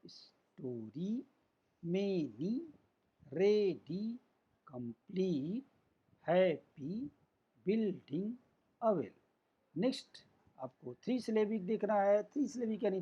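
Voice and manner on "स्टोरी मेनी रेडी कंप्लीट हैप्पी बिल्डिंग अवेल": syllable demo. Shown as a demonstration. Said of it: "फिर से देखिए".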